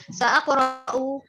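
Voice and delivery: "sa aqra'u" read slowly with a drawn-out "sa"; contoh cara baca. Shown as a demonstration. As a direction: stretch out "sa aqra'u" as a reading model. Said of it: "Jadi cara bacanya". (memanjangkan "sa aqra'u" perlahan sebagai contoh bacaan)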